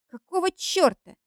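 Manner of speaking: high, exasperated curse; cursing. A narrator's reading. Eric swearing at the clingy girl, high exasperated curse. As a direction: swear it out in annoyance. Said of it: "ругается Эрик".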